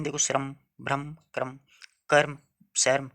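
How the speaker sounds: 「श्रम、भ्रम、क्रम、कर्म、शर्म」を一語ずつ区切り、語末の「रम」の響きをそろえて; careful rhyming demo. Shown as a demonstration. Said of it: "समान ध्वनियाँ तीन".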